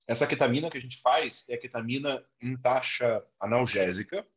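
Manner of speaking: talking while eating; words around a mouthful of food; mouth full. Real, not acted. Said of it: "Desculpa, mas eu tô comendo".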